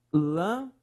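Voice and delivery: lâmpada broken into lâm, pa, da with long gaps; syllable by syllable. Shown as a demonstration. Teacher separating the example word, syllable by syllable. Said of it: "Separe, por favor".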